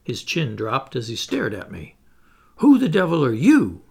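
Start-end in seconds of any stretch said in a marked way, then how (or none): 2.6-3.8 breathless whispered fright; gasped. Acted. Startled Jopley to the stranger, gasping whisper. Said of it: "he gasped".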